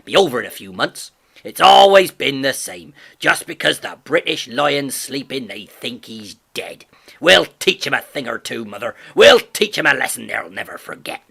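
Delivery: a gruff farmer crowing the news of war; father shouting to his wife across the yard; excited shout. A narrator's reading.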